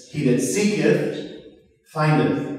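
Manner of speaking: slow "seeketh" and "findeth" with archaic endings; slow scripture reading. Shown as a demonstration. Preacher quoting scripture slowly to the congregation. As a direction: draw out the King James words. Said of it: "old English".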